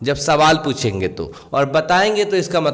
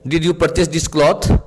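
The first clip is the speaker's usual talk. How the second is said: very slow, word by word, slightly raised pitch; slow example reading; much slower than usual. Shown as a demonstration. Teacher giving students an English example sentence, slow and clear. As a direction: read it out like a dictation. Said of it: "teacher reads English example".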